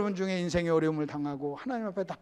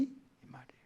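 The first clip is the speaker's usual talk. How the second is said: hushed tail-off; soft whispered coda; whispered aside; 8 semitones lower, 24 dB quieter than usual. Real, not acted. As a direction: drop to a whisper.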